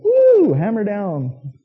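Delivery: high loud whoop, then drawn-out cheer; mock reckless cheering. Friends egging on a driver toward the cliff, mock cheering. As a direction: whoop them on like a reckless buddy.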